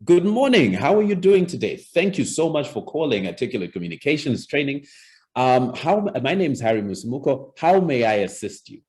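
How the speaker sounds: high, loud, bright phone welcome; cheerful receptionist, eager to help; enthusiastic greeting. Shown as a demonstration. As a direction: greet the caller with a big smile in the voice. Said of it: "an enthusiastic greeting".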